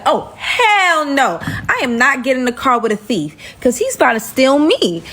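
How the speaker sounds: mildly outraged, emphatic refusal; mock refusal. Storyteller refusing to ride with a thief, mock indignant.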